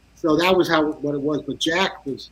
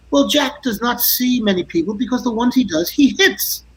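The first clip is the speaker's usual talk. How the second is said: lightly voiced dry deadpan, higher on the punchline; a rock musician quoted; 5 semitones higher than usual. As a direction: deliver it like a wry understatement. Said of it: "And he goes".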